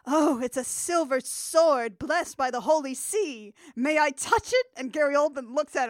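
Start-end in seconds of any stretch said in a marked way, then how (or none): 0.1-4.7 lightly hammed-up fawning priest; simping priest. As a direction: fawn over it in mock awe. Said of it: "simping real hard for Gary Oldman".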